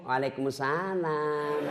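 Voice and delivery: slow, soft coquettish reply; mock soft sultry answer. Preacher imitating a woman answering sweetly, slow. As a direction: purr the greeting back slowly. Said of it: "jangan ki kasih syahdu suara".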